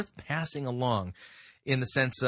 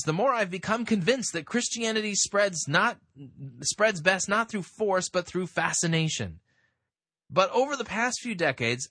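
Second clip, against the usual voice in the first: higher, emphatic article reading; reading aloud; 5 semitones higher than usual. Acted. Host reading the writer's argument to listeners, read-aloud voice. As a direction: read it out with lifted, deliberate stresses.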